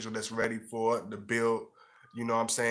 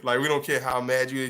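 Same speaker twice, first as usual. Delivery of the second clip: usual speaking voice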